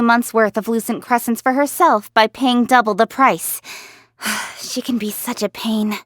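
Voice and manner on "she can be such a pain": soft sigh of exasperation; exasperated. Acted. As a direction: sigh it out, quietly fed up. Griping about being outbid by acquaintance.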